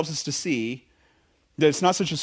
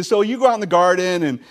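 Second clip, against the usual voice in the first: sarcastic; 3 semitones higher, faster than usual. Retold or imitated. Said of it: "I ask him something a little bit sarcastic".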